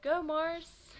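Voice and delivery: high, loud cheer; cheering shout. Acted. A fan in the crowd cheers Mars on, shouting. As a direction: shout for your man. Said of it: "someone else called".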